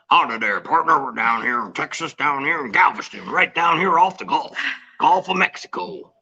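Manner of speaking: a mild, self-mocking Texan accent greeting online viewers from Galveston. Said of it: "I can't do a Texan accent".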